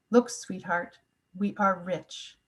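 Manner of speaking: soft, slowing, tender retelling; smiling warmth. Retold or imitated. Mother to young child before a full fridge, tenderly smiling. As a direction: say it gently through a smile, easing into the last words. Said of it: "with a big smile on her face".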